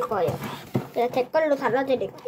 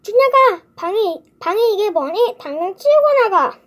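loud, higher scolding yell; mom yelling; 6 semitones higher, 6 dB louder than usual. Acted. Mom yelling at 준혁 about his messy room. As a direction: shout at him to clean up now. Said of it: "엄마가 소리를 질렀어요".

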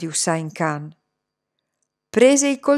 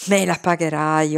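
lower, menacing promise; low threat; 5 semitones lower than usual. Acted. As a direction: threaten him darkly. Master threatens Iqbal.

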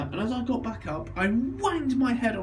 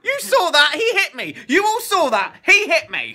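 high, loud laughing cry of protest; mock outrage; 11 semitones higher, 7 dB louder than usual. Laughing at the family, hammed-up high cry of being hit. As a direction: playfully wail to the room that he hit you.

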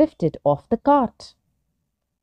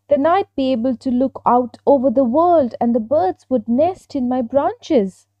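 lightly voiced little tree, higher and eager; higher, wishful little-tree voice; little fir tree; 5 semitones higher, 3 dB louder than usual. Fir tree dreaming aloud to an oak, lightly voiced wishful.

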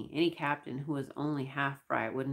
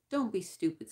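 a higher mild snap; snapped; 5 semitones higher than usual. Acted. Short crewman snapping at Thor, mildly. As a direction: brush him off with a mild snap. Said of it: "snapped the shrimp".

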